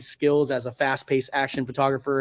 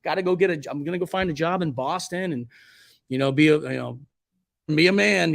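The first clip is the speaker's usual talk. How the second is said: fired-up younger self; 5 semitones higher than usual. Retold or imitated. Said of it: "I was like".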